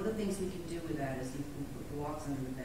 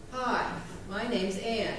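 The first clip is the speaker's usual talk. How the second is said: slow, plain self-introduction; habitual name pattern; 4 semitones higher, 5 dB louder, much slower than usual. Shown as a demonstration. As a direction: say it the usual way, slowly. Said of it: "did you notice that the pattern is to do this".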